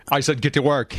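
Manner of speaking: a hint of a growling daddy voice. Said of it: "growling daddy voice".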